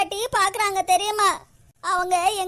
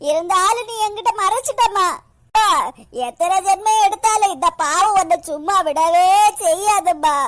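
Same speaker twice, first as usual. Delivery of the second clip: melodramatic crying curse; tearful wailing; 5 dB louder than usual. Acted. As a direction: wail it out loud through hammed-up sobs. Daughter sobs accusation and curse at mother. (அழுது சாபம் விடும் புலம்பல்)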